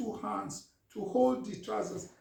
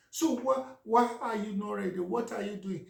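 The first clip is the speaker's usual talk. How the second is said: higher, sharper nagging questions; impatient scolding wife; 3 semitones higher than usual. Retold or imitated. Wife scolds husband still not dressed, impatient and exasperated. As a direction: demand why he's still not ready.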